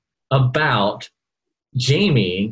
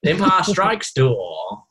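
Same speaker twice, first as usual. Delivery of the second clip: bad British accent; 7 semitones higher, much slower than usual. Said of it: "my British accent's terrible".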